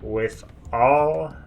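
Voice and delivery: slow, deliberate menacing answer; slow menace. Acted. Reggie slowly threatening the sheriff. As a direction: let each word land heavily.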